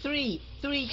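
"Three" opening on TH, tongue out; correct TH sound. Shown as a demonstration. Teacher correcting a student's first sound, TH in "Three". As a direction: begin "Three" with the tongue between the teeth. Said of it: "chứ không phải là".

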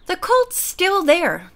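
calm a worried friend, unhurried; mild soothing assurance; reassuring. A narrator's reading. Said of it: "Joanne reassured her".

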